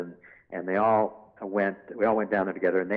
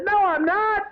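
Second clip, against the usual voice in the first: sly devil denial; 4 dB louder than usual. Retold or imitated. Devil character denies.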